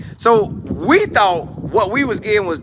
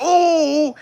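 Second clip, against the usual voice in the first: mock ooh; 10 semitones higher than usual. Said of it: "So he like".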